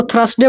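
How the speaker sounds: "थर्सडे" as thras-de, r after th; wrong pronunciation. Shown as a demonstration. Teacher quoting a common mistake, "थर्सडे" as thras-de. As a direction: say "थर्सडे" with the r misplaced. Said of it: "थर्सडे बोल देते हैं".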